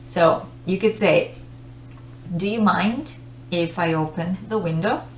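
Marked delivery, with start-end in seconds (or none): 2.4-5.0 courteous request with a rising questioning tune; polite. Shown as a demonstration. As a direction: politely ask for permission. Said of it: "That's the polite way".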